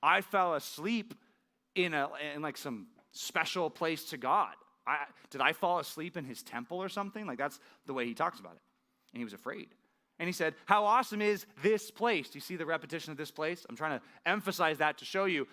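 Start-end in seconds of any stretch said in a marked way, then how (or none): 0.0-7.3 mock freaking out. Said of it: "he's kind of freaking out". 10.6-12.3 higher and louder, full of awe; awestruck exclamation. Acted. Jacob afraid, exclaiming at place.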